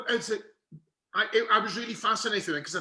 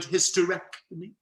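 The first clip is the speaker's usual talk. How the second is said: delicate handling of an unmentionable word; mother's taboo word. Retold or imitated. Son mimicking mother's word for surgery, delicately euphemistic. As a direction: imitate mum tiptoeing round a medical term. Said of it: "like my mother would have used".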